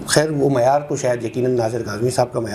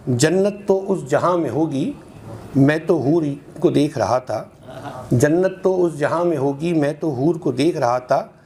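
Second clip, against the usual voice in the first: measured, rhythmic mushaira delivery; ghazal recitation; 3 semitones higher than usual. Acted. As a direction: recite in metre, lingering on each half-line. Resumes the ghazal. (ग़ज़ल का लयबद्ध पाठ)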